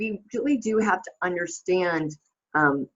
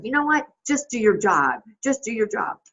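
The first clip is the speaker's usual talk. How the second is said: higher-pitched dismissive imitation; giving attitude; 6 semitones higher than usual. Client dismissing his agent, imitated attitude. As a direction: brush him off with mock attitude. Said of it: "he gives him attitude".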